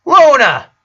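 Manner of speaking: high loud sharp call; yelled. A narrator's reading. Sister rebuking Luna's outburst, loud yell. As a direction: call her name to stop her.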